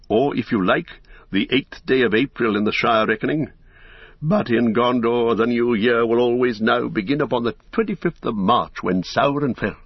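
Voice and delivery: lightly voiced wise wizard, measured and assured; a touch of stately proclamation; Gandalf.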